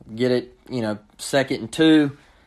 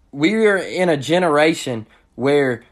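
usual speaking voice

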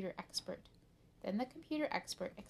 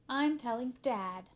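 loud, raised tattletale warning; 4 semitones higher, 7 dB louder than usual. A narrator's reading. D W threatening to tattle on Arthur, warning. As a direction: threaten to tell on a sibling. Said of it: "warned D W".

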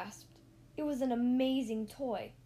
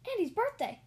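higher, louder startled outburst; alarmed exclamation; 10 semitones higher, 5 dB louder than usual. Acted. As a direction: blurt it out in alarm. Woody alarmed at the news.

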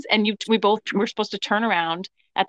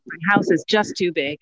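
muffled in a closet; 3 semitones lower than usual. Real, not acted. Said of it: "I'm in my closet right now".

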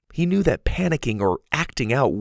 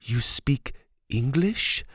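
surprised; 3 semitones higher, 3 dB quieter, slower than usual. A narrator's reading. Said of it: "looked at them surprised".

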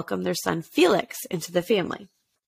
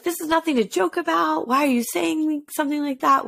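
upset; 9 semitones higher than usual. Retold or imitated. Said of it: "she gets upset and tells him".

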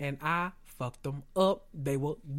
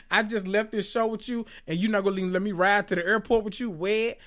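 higher-pitched mock-offended protest; indignant disbelief; 5 semitones higher than usual. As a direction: act out someone rudely refused a ride. Acts out the rebuffed cast member.

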